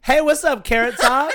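high, loud mock call across the street; loud laughing imitation of a passer-by; homeless woman's greeting. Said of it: "she goes".

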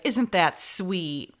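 slow, drawn-out fake sweetness; condescending. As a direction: talk down to her, slowly. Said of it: "Ugh, so condescending".

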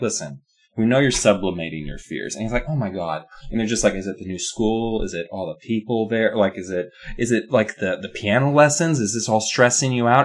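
calm parents. Retold or imitated. Parents voiced mocking calm therapy talk.

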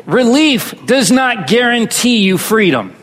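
relief does not guarantee you freedom said slowly, weight on relief; slow emphatic statement. Shown as a demonstration. Preacher giving the key line to repeat. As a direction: lay it down slowly for them to repeat. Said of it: "Say that with me".

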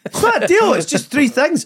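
high-pitched indignant uncle; worked-up uncle character, pitch shooting right up; Frank. Shown as a demonstration. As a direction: protest in a squeaky-high uncle voice, laughter in it. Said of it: "I just let Frank talk".

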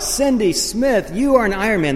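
high-pitched finish-line call; announcer's yell. Retold or imitated. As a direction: imitate an announcer proclaiming a finisher. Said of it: "He yelled, yelled out".

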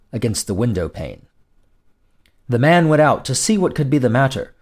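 ordinary delivery

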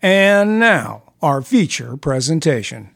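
booming movie-trailer announcer; big Hollywood voice. Shown as a demonstration. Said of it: "My deepest big pipe Hollywood voice".

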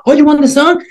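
high-pitched mock question; fed up. DJ baiting the girl who kept asking, fed-up retelling. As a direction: needle her, acting out the fed-up DJ. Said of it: "just had enough of it".

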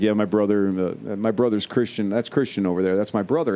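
a hint of a towering biker telling you about his brother; giant guy's voice. Voicing giant Jason.

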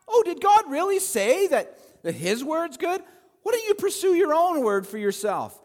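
the snake whispering doubt to Eve; tempting serpent. Retold or imitated. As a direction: coax like the serpent in the garden.

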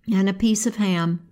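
usual speaking voice

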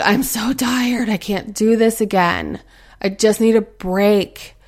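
slow, drawn-out tired whine, lightly acted; dragging out a mildly hammed-up complaint; mock weary complaint. Tired parent complaining to self on waking, mock weary. Voicing a worn-out parent's morning thoughts.

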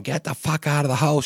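high mock yell of an angry mother; imitating screaming mother. Mother yelling at drunk Jim, high mock screech. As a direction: pitch jumps way up, mock screech. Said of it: "And she's going".

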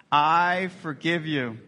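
each word slow and deliberate, "I forgive you" drawn out. Shown as a demonstration. Pastor modeling the phrase for the church, slow and deliberate. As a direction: model the words slowly for the congregation to repeat. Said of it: "Can you say that?".

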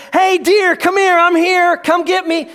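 mock yell at deer. Hunter in the woods calling the deer, mock yell. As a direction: holler like a clueless hunter. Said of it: "jump up and down and scream".

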